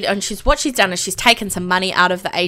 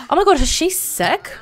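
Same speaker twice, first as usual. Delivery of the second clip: sudden alarm; 6 semitones higher than usual. Real, not acted.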